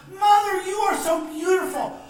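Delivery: overwhelmed, weeping with happiness; sobbing out love to his mother; tearful joy. Acted. Son sees mother first time.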